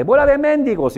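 high, loud yell of an insult; insulting shout. Shown as a demonstration. Yelling an insult at life, loud angry yell. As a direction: bark it at life like a curse. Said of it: "Grítale".

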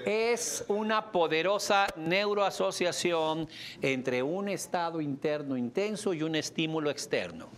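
dictated slowly, word by word; slow dictation. Shown as a demonstration. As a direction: spell it out slowly for note-taking. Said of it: "Ahí te va". (dictado lento y marcado)

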